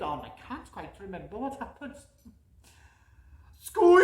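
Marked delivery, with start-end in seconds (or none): 3.6-4.0 high, loud squeaky mouse cry; shrill mouse squeak. Acted. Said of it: "I'm not very good with voices".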